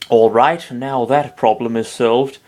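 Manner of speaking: slow, put-on English accent. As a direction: say it like a posh English lord. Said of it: "I sound like fucking Peter Dinklage".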